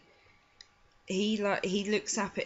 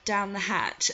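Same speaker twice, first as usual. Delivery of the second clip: creepy Boothby; 2 semitones higher than usual. Retold or imitated. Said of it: "I have to do his voice".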